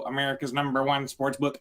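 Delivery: flat, even ad-read monotone; robot voice. Retold or imitated. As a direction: say it like a machine reading an ad. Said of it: "I'm saying that like a robot".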